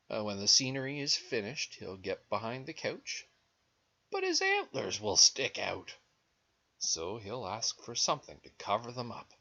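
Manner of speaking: animated story reading with swooping pitch; lilting read-aloud; picture-book narration. A narrator's reading. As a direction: read to small children, leaning on key words. Reads picture book to children.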